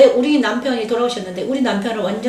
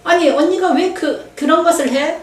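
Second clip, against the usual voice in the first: scornful sister; 4 semitones higher than usual. Retold or imitated. Younger sister belittling her eldest sister, mock disdain. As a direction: mimic a sister questioning your right. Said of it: "딱 그러더라고요".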